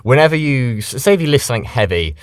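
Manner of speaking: ordinary delivery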